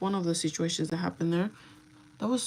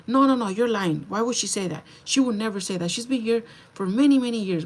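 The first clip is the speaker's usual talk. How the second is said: accusing, louder boss voice; mock angry boss; 3 semitones higher, 4 dB louder than usual. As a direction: scold like an indignant owner. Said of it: "She's like".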